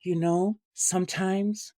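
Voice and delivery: imitating a French Canadian singer's accent, building to a laughing high finish; mock French Canadian diva, slow then big on boogie; the speaker doing the singer in a French Canadian accent. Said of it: "she would do the accent".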